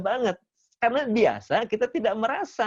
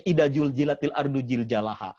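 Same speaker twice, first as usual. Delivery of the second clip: Sundanese z as j; 3 semitones lower than usual. Retold or imitated. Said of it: "Orang Sunda itu ja semuanya".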